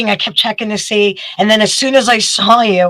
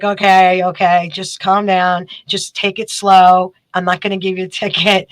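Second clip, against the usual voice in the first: soothing trooper; 4 semitones lower than usual. Retold or imitated. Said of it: "And he's like".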